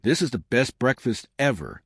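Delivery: talking through a mouthful of pancakes; mouth full. Acted. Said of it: "Ethan said with his mouth full".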